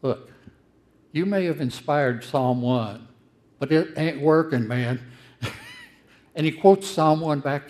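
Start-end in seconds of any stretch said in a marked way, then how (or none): 0.0-5.0 louder, blunt voice of the prophet; Jeremiah's complaint. Retold or imitated. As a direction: tell God straight that it isn't working. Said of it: "Jeremiah says to God".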